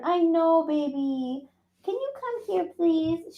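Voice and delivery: high, soft coaxing. Real, not acted. Streamer coaxing her cat to come, high sweet coo. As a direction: coax the kitty over sweetly.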